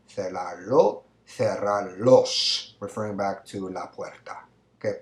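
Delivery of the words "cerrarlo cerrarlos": "cerrarlas", "cerrarla", "cerrarlo", "cerrarlos" each drawn out; slow answer choices. Shown as a demonstration. Teacher reading options slowly to the class. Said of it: "would you say".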